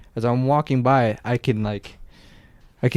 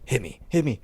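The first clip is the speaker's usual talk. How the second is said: half-whispered, much softer plea; hushed and urgent, like a secret at the door; retold whisper; 6 dB quieter than usual. Worker secretly whispering to me, mock hushed. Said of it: "the worker just whispers to me".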